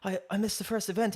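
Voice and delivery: high, distressed retold plea; retold crying plea. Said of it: "he sees I'm crying".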